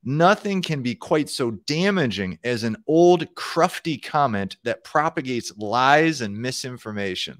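slow, deliberate read-aloud; measured quotation from a programming book. Acted. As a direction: read the passage out slowly and deliberately. Reads book passage aloud.

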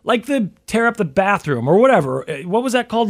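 ordinary talk, nothing marked

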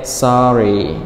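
sorry let down at the end; falling tone on sorry. Shown as a demonstration. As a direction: drop the tone through sorry. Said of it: "so the tone goes down".

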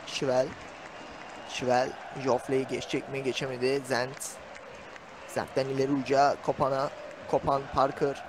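commentator's running call of the players; live play-by-play. Real, not acted. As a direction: call the match as it unfolds, name by name. (canlı maç anlatımı)

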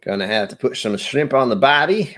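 hammy Aussie catchphrase; Australian accent. Acted. Streamer showing off horrible catchphrases, in mock Aussie accent. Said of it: "horrible catchphrases do I know in a Australian accent".

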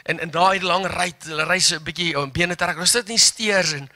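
normal talking voice

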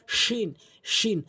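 hushing sh of শিন from mid-tongue at the palate; drilled sheen. Shown as a demonstration. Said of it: "এভাবে উচ্চারণ করার চেষ্টা করবেন".

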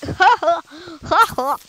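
mock laugh in separate ha's; put-on staccato ha-ha-ha; imitated laugh. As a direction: imitate your own goofy laugh. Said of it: "Did you hear that laugh".

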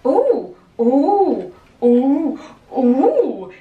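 thrilled little ooh sounds; excited. Real, not acted. Excited at outfit.

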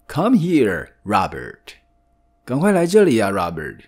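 calling out. Acted. Woman in the park calling her pet, loud. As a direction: call him over sharply.

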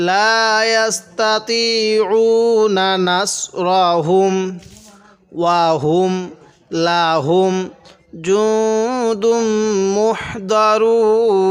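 slow chanted tajweed recitation; Quran recitation. Acted. Teacher reciting the verse for students, slow chant. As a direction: recite it slowly with long held vowels.

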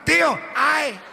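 high mocking whine; kids mocking. Small kids mocking their groaning uncle, high whine. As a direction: mimic the uncle to tease him. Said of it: "making fun of him".

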